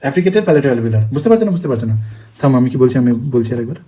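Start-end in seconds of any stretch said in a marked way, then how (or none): 1.1-1.5 a higher, rising check-in question; high asking. Real, not acted. Teacher asks her class if they follow, pitched high and rising. 1.5-1.9 quiet repeat. Real, not acted. Teacher echoes her own question to the class, low and soft.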